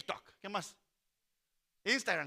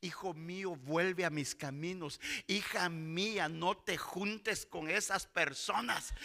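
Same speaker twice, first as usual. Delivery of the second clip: slow, drawn-out appeal; pleading divine call; 2 semitones lower, 3 dB louder, much slower than usual. Acted. God calls his children back, slow pleading. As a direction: plead with them, stretching the words.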